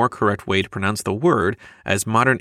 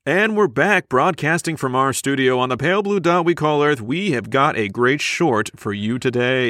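broadcasting voice; 3 semitones higher than usual. Pretend. Mocking the news reader, broadcaster voice. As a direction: open the show like a TV host. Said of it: "there you go".

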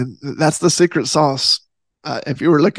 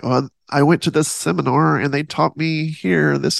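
lightly nerdy know-it-all voice; a hint of a seminar nerd. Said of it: "that was my nerdy voice".

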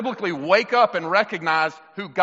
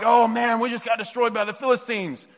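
acted panic, pitched high; high, worried voice imitating panicked soldiers; mock freaking out; 5 semitones higher than usual. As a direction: play a rattled army fretting over defeat. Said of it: "the Israelites started freaking out".

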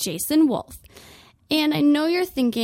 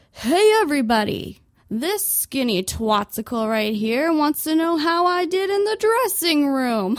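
mock yell; 4 semitones higher than usual. Customer on a display table calling out to the store, a mock yell. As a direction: call out to the whole store. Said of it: "then I'd yell".

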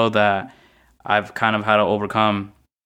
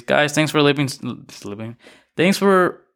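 breathless after a workout; winded, catching breath; 3 semitones higher than usual. Real, not acted. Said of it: "I'm pretty out of breath".

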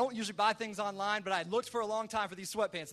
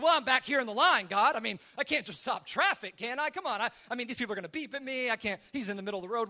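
louder, higher protesting at the start; making excuses; 3 semitones higher, 5 dB louder than usual. Retold or imitated. Pastor to God about stopping traffic, making excuses. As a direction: plead your case, animated and a bit exasperated. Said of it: "I started making excuses".

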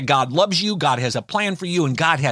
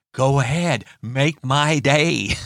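a hint of a squinting gunslinger daring you, near his own voice; Clint Eastwood impression. Preacher quoting Clint Eastwood to a trouble, mild impression. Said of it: "I'm not an impressionist".

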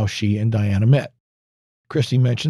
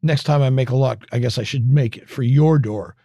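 sarcastic. Retold or imitated. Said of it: "with heavy sarcasm on the word your".

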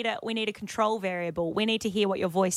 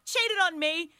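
shrill sobbing outrage; 8 semitones higher than usual. Pretend. Mock betrayal accusation to co-host.

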